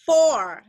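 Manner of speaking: "four" with the O held long. Shown as a demonstration. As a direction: stretch the vowel of "four". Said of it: "itu O panjang". ("four" dengan O panjang)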